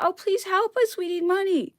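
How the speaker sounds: high, whiny mock begging for money; mocking plea. Vlogger mocks royalists begging Napoleon for money, sarcastic whiny plea.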